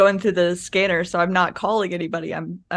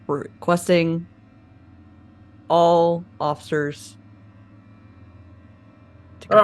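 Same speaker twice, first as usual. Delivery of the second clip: police dispatcher. Pretend. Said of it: "making myself sound like the dispatcher".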